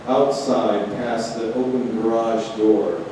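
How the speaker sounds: unhurried reading with stretched pauses; poem reading. Acted. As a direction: let each image land as you read. Reads her poem Equinox.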